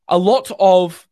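winded, slow and pushing out words; out of breath. Real, not acted. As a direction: speak like you just ran upstairs, gasping. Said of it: "sorry, I'm just catching my breath".

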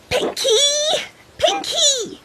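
put-on high calling child voice. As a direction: call out for her friend. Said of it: "called Koketso".

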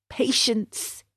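quietly to himself while chewing; a resigned soft patience; donkey chewing straw, resigned; soft, resigned mutter. Acted. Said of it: "he repeated as he chewed".

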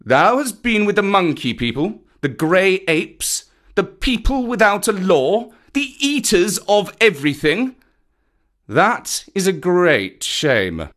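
high, indignant reproach; scandalised, emphatic scolding; stern panther. A narrator's reading. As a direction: shame the boy, slowing to the verdict. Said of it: "Bagheera's eyes were as hard as jade".

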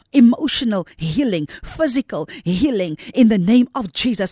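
fervent pulpit declaration; preaching at full force. Acted. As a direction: declare it over every house.

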